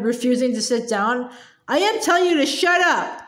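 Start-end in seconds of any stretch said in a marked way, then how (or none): 1.7-3.3 mild roar. Acted. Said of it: "the Trunchbull roared".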